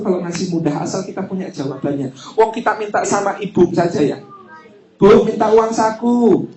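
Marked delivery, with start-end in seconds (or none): 5.0-6.5 put-on slow, drawn-out wheedling child; child pleading. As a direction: coax mom like a little kid. Child asking mother for money. (anak merengek minta uang saku ke ibu, pelan)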